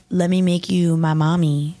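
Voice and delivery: lightly voiced street catcaller; imitated catcaller. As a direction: drop the pitch like a passing creep.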